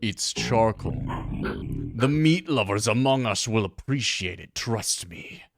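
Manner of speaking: a hint of a dry headmaster; lightly voiced principal. Principal hands out rewards.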